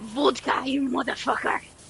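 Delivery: put-on Russian accent. Trading accents with another speaker, saying it in a put-on Russian accent. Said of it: "like a Russian accent".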